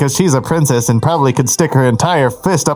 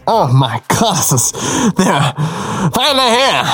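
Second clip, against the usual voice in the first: breathless gasping; 3 semitones higher than usual. Acted. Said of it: "I said, in between gaps of breath".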